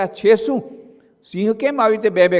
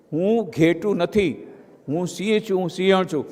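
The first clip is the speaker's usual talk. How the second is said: quiet affirmation; 3 semitones lower, 6 dB quieter than usual. Acted. Solemn affirmation.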